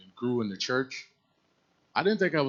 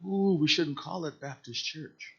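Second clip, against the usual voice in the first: light mock voice; 6 semitones higher, 5 dB quieter, slower than usual. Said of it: "she's like".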